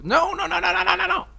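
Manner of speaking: high squeaky no's with a laugh. Real, not acted. Player squealing at the beetle, high and laughing. Beetle goes wrong again.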